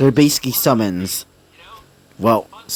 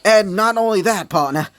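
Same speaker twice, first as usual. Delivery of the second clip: higher-pitched, lightly acted protest; taken-aback objection; 4 semitones higher than usual. Walter halting the speaker over his description, taken-aback objection. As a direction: cut in with mild disbelief.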